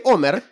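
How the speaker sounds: "Homer" read Spanish-style as O-mer; silent H. Shown as a demonstration. Host supposing a Castilianised name, silent H. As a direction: start "Homer" straight on the O, no H. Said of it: "Que en español no se pronuncia".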